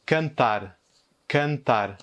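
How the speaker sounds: cantar avec can dit comme E, tar ouvert; détacher cantar syllabe par syllabe; mot portugais. Shown as a demonstration. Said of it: "l'exemple suivant". (cantar, can fermé, tar ouvert)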